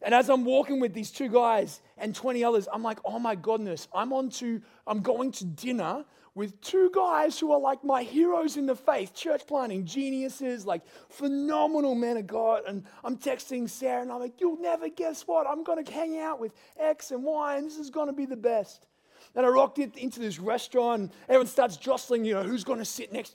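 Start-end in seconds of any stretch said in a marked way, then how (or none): 3.0-12.6 excited gush. Retold or imitated. Thrilled walking to dinner with heroes. 14.4-18.9 giddy excitement. Retold or imitated. Excited text to wife Sarah.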